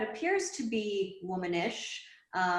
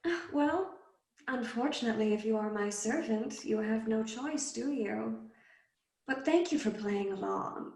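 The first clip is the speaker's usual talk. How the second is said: teasing fiend; 4 semitones higher than usual. Acted. The fiend taunting the possessed boy, amused and high. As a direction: savour every word, toying with him.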